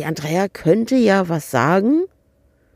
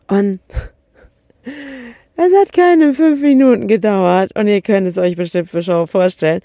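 laughing; 2 semitones higher, 5 dB louder than usual. Real, not acted. Laughing while telling the story.

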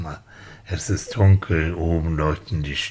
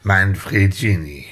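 airline pilot announcement. Pretend. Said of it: "hier spricht Ihr Flugkapitän".

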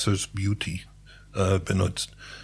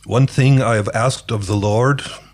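measured scripture quotation in native English; reciting a psalm. Real, not acted. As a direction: recite the verse phrase by phrase, with pauses. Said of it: "Ich zitiere das aber auf Englisch".

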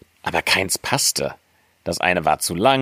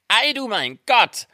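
high dwarf exclamation, climbing higher on the repeat; crying out in amazement. A narrator's reading. Dwarfs discover sleeping Snow White, high cries of amazement. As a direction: exclaim in wonder, squeakier the second time. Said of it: "schrien vor Verwunderung".

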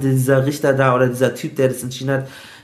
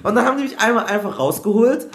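laughing; 6 semitones higher than usual. Real, not acted. Laughing while recalling jail.

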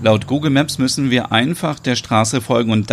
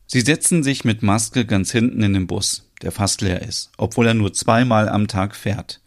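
story narration. A narrator's reading. Narrator describes the bus ride.

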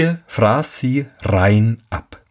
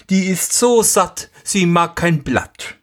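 lügender Sohn; 8 semitones higher than usual. Acted. Lügender Sohn antwortet dem Vater.

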